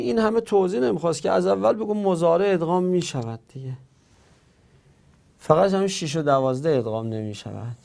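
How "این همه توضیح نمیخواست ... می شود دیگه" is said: quick, higher voice of an objecting student; imagined student objecting. Retold or imitated. Teacher voicing a student's complaint, quick and high. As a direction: play the impatient student who says it's obvious. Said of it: "شما بگوید".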